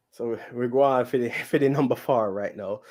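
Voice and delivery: lightly put-on, unconvincing Jamaican accent; bad Jamaican accent. Podcast host moving on to number four, bad Jamaican accent. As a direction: attempt a poor mock Jamaican accent. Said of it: "That is the worst Jamaican".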